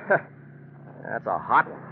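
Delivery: slow, mocking laugh; scornful laugh. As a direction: scoff at her bitterly. Bitter scoff at apology.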